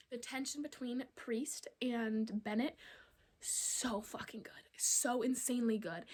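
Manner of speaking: hushed breathy gush; whispering. Real, not acted. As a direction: whisper it, savoring each word.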